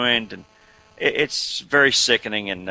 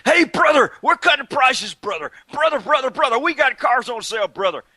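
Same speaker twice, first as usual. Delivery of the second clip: much higher, hammed-up huckster pitch; car dealer ad impression; 12 semitones higher, 4 dB louder than usual. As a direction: shout the sale like a cheesy ad. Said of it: "he was going".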